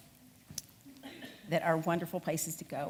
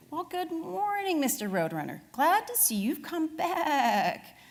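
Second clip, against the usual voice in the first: Bernie's voice; 8 semitones higher, slower than usual. Acted. Bernie greets roadrunner, voiced.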